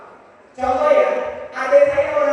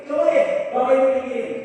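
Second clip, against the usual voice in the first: demo of thinker's speech. Shown as a demonstration. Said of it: "orang tinggi itu kalau ngomong ya begini".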